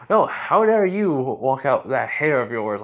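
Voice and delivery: loud, drawn-out retort; mock indignation. Student turns the insult back, mock indignant. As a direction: throw the outrage back, slowly and loudly.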